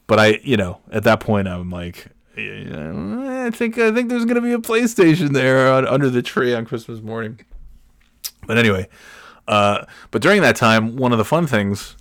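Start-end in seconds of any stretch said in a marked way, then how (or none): 2.4-7.4 high, far-off voice of his younger self; hopeful kid self. Retold or imitated. Child self hoping for PlayStation.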